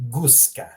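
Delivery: "Guska" as GOOS-kah; hard G. Shown as a demonstration. Teacher models a Croatian word, "Guska" with hard g. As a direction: say "Guska" with the g of goose. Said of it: "Notice how you pronounce the G".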